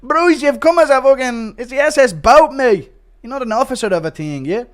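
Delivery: loud, high put-on outburst; mock indignant yell, easing off at the end; Bryce. Scolding someone in the wrong uniform, loud high impression. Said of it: "Impression of Bryce on the S S McGregor".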